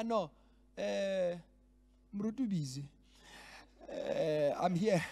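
offhand, casual brush-off of the absent pastor; lightly voiced careless stand-in; wry mock of a self-important delegate; mocking dismissive delegate. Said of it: "That's how it sounds".

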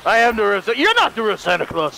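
low, firm Santa voice; deep-voiced Santa. Santa rebutting a rival Santa, firm and low. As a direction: claim the title in a deep voice.

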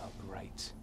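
hushed whisper. Real, not acted. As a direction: whisper so the monsters won't hear. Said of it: "I don't know why I'm whispering".

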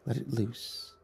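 lightly voiced devil, calm and tempting; coaxing devil. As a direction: tempt him gently to let go. Lucifer coaxes, calmer.

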